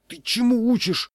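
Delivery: high-pitched, loud indignation; hissed rebuke. A narrator's reading. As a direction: scold him for bad teaching. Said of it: "зашипел я". (возмущённо, высоким голосом)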